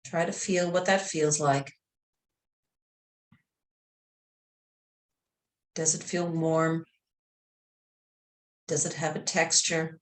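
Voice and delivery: calm meditation voice, long pauses between phrases; guided meditation. Real, not acted. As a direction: gently guide them into relaxation.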